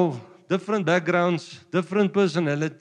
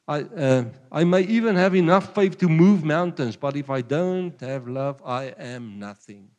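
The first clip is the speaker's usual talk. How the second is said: preacher reading the love chapter, building then fading; scripture reading; 4 dB louder than usual. Acted. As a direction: swell to the mountains, drop to nothing. Reads Corinthians with rising force.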